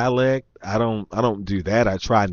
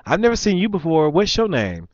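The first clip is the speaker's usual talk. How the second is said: higher, quick woman's voice; imitated nosy woman; 8 semitones higher, 3 dB louder than usual. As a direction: mimic her sizing up a stranger. Mimicking the woman asking his name.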